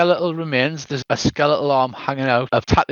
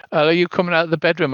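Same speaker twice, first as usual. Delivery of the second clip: usual speaking voice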